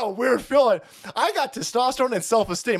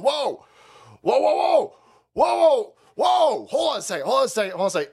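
a lightly hammed-up panicked whoa; mock alarmed officials; 2 semitones higher than usual. Host mocking officials startled, mock alarm. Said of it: "They're sitting there going".

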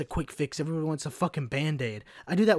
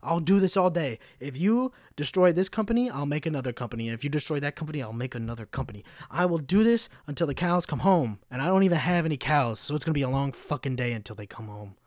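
defiant Michael Scott rant; faster than usual. Retold or imitated. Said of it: "He's like".

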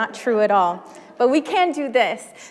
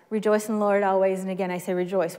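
quick run-through; 4 semitones lower, faster than usual. Shown as a demonstration. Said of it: "those in the middle will start".

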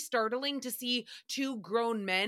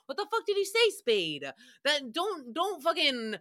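incredulous demand; 5 semitones higher than usual. Real, not acted. Asking co-host Spade what got cut, incredulous outburst. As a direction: call him out in disbelief.

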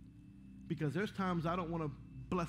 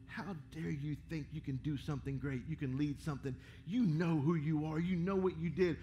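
little taunting voice; 4 semitones lower than usual. Retold or imitated. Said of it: "sneaks up in that little voice".

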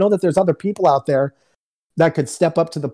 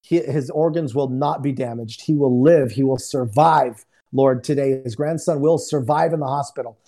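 weight each phrase like a prophecy; prophetic prayer; 3 semitones lower than usual. Retold or imitated. Guest praying over a man's grandson, prophetic declaration. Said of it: "I let the prophetic word come out".

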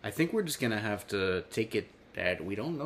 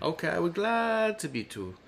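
British way; 5 semitones higher than usual. Acted. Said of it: "I just said that in a very British way".

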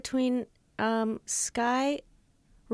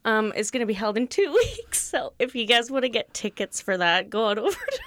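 laughs slipping out mid-word; struggling to keep a straight face; trying not to laugh. Real, not acted. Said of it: "I'm trying to keep a straight face".

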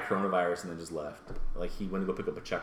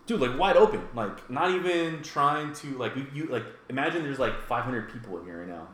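incredulous; 6 semitones higher than usual. Retold or imitated. Outraged retelling of coke scene.

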